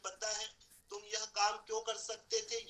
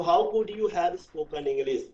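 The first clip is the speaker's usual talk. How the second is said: very slow, word by word English question; slow model sentence; 3 semitones lower, 14 dB louder, much slower than usual. Shown as a demonstration. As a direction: model the question slowly for the class. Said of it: "पूछ के देखो बेटा". (बहुत धीरे, एक-एक शब्द साफ़ बोलना)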